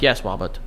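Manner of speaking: "Robert" said with its R softened toward a W; can't say R's. Retold or imitated. Teasing the camp kid, "Robert" with a weak R. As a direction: say "Robert" as if unable to make R sounds. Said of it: "who couldn't say his R's".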